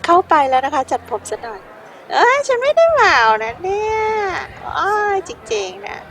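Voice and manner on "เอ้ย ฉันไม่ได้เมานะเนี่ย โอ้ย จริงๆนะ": put-on tipsy girl insisting she's sober; drunk girl. Voicing a drunk stranger.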